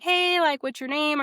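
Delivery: high, lilting hello to a stranger; retold friendly check-in; friendly greeting. Retelling her approach to a stranger.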